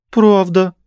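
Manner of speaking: very high, loud cry; sharp boyish shout; exclaim. A narrator's reading. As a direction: burst out eagerly. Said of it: "вскрикнул мальчишка".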